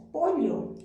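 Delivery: POLLO said "po-lyo" with palatal ll; highland double-L. Shown as a demonstration. Teacher showing coastal students what they don't say, highland double-L. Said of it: "Tú que perteneces a la costa, no pronuncias".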